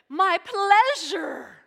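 high, slow, sing-song my pleasure; sweet server voice. Retold or imitated. Server answering a thankful customer, high sing-song cheer. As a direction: gush it like an overly cheerful server.

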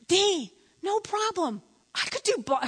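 breezy imitation of husband; cocksure husband. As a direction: play the overconfident husband. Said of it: "and he goes".

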